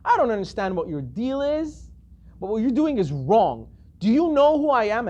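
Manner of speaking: retold outrage with firm emphasis; really upset. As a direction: scold them, building to an affronted demand. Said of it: "he gets really upset".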